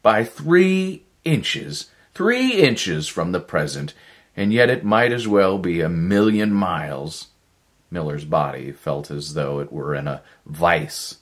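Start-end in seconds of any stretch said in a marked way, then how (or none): 0.0-7.3 bitter defeat. Acted. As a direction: despair pressed out word by word.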